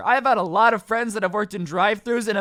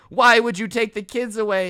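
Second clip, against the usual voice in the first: louder, anguished accusation; mock yelling; 2 semitones higher, 5 dB louder than usual. Old man blames worker for losing the kids, yelling. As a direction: act out a wronged husband yelling. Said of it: "he's yelling at her".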